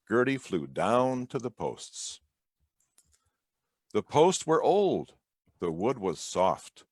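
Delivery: big, sing-song storybook reading with wide pitch swings; reading to children. A narrator's reading. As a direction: read it like story time for little kids. Historian reads children's picture book.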